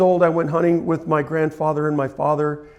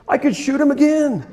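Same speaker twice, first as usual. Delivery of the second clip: higher and louder, laughing through the words; laughing delight; 9 semitones higher, 4 dB louder than usual. Real, not acted. Telling the audience he could reshoot the deer, laughing. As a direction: let the joy spill out in a laugh.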